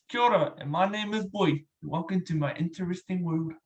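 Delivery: put-on lightly done Maori Kiwi accent; New Zealand accent. Impressionist offering another accent, light Kiwi impression. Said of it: "sound like Billy G James".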